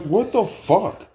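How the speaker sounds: high, drawn-out disbelief; retold dismay. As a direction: stretch it out high, in mock shock. Startled by ketchup spraying his shirt.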